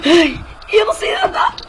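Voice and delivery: crying shout for help; mock panic. Kid shouts from the pool he can't swim. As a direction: shout and wail, pretend drowning.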